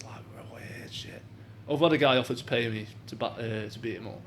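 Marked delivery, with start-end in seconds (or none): 0.0-1.2 whispered aside, slow. Real, not acted. Trailing off about creepy message.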